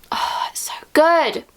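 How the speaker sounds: whispered with delight; rapt whisper. Real, not acted. Savouring favourite lotion on camera, rapt whisper. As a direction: breathe it, savouring the smell.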